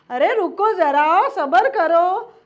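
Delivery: loud catchphrase impression; Hindustani Bhau. Imitating a viral video's call for patience, loudly. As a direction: imitate the viral shout, leaning on each word. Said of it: "બહુ આવે છે ને હિન્દુસ્તાની ભાવનો એ video".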